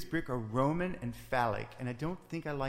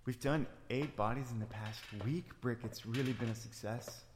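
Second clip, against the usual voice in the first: put-on Scandinavian accent; 2 semitones lower than usual. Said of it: "Is that accent even real?".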